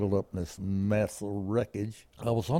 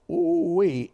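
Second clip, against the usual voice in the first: mock whoop; 7 semitones higher, 4 dB louder than usual. Recalling crash impact.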